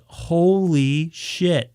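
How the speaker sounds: very slow, drawn-out disbelief; retold appalled shock. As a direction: stretch each word, appalled. Retells shock at the taste.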